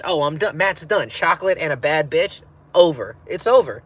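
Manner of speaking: high, loud and building, mock doomed excitement; giddy panic. Matt lost in a Swedish forest, smelling chocolate, high and loud with giddy dread. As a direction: ham up the thrill of being caught by a witch. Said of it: "I'm like".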